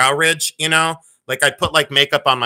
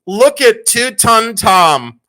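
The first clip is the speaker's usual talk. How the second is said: slow amused drawl; 6 semitones higher, 6 dB louder, much slower than usual. Real, not acted. Mocking own baby photo.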